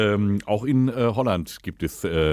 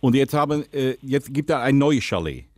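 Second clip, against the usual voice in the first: put-on Dutch accent, lisping. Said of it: "rede, lispeln und Holländisch".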